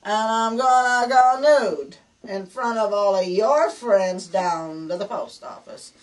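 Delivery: wife at her wits' end threatening her husband, hammed-up fury; mock furious ultimatum. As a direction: drag out every word like a final warning. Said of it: "Now she's really mad and angry".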